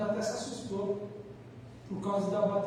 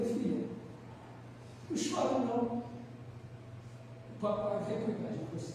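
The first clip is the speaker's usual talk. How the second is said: soothing; 6 dB quieter, slower than usual. Retold or imitated. Father soothes crying daughter, retold.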